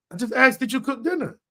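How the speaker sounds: pointed irritated repeat. Shown as a demonstration. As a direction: repeat the question like you're annoyed you had to. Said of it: "that's what just happened right there".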